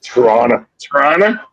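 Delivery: Toronto accent, TORONTO slurred to "Trawna". Shown as a demonstration. Showing friends how locals say it, Toronto accent. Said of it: "Not the Toronto accent?".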